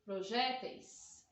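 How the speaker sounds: "Projéteis" said slowly and clearly; slow answer. Shown as a demonstration. Teacher answering her own question, slow reveal. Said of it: "O que que eu faço?".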